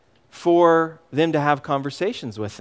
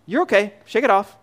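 calm reassurance; 6 semitones higher, faster than usual. Retold or imitated. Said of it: "just calmly walk up and say".

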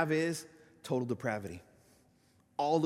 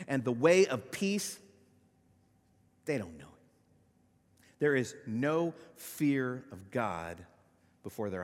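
scripture reading; slower than usual. Acted. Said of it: "In verse fifteen, he picks back up".

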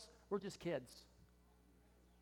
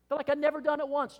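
preaching loud; 10 semitones higher, 9 dB louder than usual. Real, not acted. Preaching at full force.

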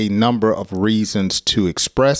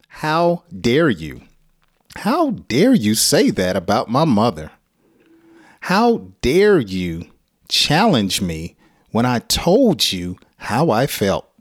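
mock angry scolding. Shown as a demonstration. Teacher showing students how to sound angry. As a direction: act out offended indignation. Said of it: "express your anger by saying".

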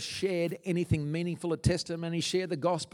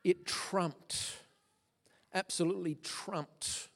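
choked whisper; 4 semitones higher, slower than usual. Real, not acted. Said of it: "I'm so emotional this morning".

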